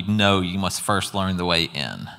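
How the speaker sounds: slow, firm, unbending; stern. Retold or imitated. The Lord refuses to let her visit heaven, slow and stern. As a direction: lay down the rule slowly and firmly. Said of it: "he said very sternly".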